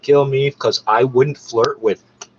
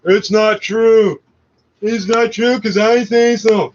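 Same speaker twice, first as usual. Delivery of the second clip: mocking denial; 5 semitones higher, slower than usual. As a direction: drag it out like a smug know-it-all.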